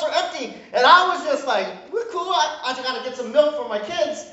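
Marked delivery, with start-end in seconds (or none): 1.9-4.3 laughing mock calm. Laughing at own panic story.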